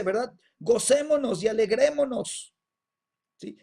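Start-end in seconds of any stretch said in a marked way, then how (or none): 0.6-2.5 loud, exultant call to rejoice; heavenly proclamation. Acted. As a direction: proclaim it loudly as the mighty voice. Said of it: "y la voz dice". (proclamación potente y jubilosa)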